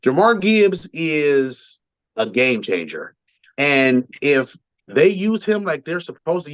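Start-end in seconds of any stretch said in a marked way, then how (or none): 0.0-3.1 slow, weighty delivery of "Jahmyr Gibbs is a game changer"; emphatic. Real, not acted. Host making his point on a player, slow emphatic "game changer". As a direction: space out each word up to "game changer" for emphasis. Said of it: "I need to make sure I put emphasis on it".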